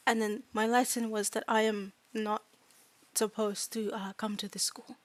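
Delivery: hesitant non-native fairy voice; fairy student recounting mistreatment. Acted. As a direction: tell it simply, groping for each word. Fairy recounts being tricked.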